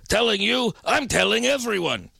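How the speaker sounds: a hint of Yiddish old man; Yiddish accent. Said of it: "has a very strong Yiddish accent".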